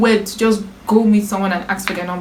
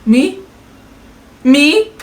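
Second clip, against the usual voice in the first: mock outrage; 3 semitones higher than usual. Real, not acted. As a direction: act offended at the question. Indignant at being asked.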